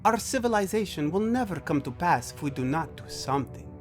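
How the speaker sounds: alien brother, insistent. Acted. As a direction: press the argument with stately conviction. Brother voiced arguing his case.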